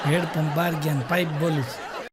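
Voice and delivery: retelling the punchline through a laugh. Real, not acted. Comedian repeats the wife's phone mix-up, laughing.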